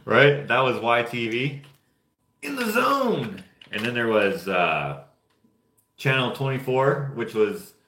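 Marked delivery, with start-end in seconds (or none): 2.4-3.4 high, slow, stretched-out promo announcer voice; announcer slogan. Retold or imitated. Recalling a kids' channel promo for friends, in a hammed-up announcer voice. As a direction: belt it out like a TV channel jingle.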